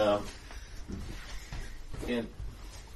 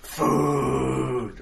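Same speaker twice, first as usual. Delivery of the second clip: drawn-out creature call; different creature voice; 3 dB louder than usual. Acted. GM voices the creature that only says food, long call. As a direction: hold the one word long, like a monster. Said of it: "one voice just goes, Food".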